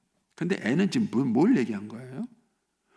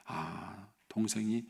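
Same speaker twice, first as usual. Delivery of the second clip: accepting parent; 3 semitones lower, 4 dB quieter than usual. Acted. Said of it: "그 얘기를 받아줘요".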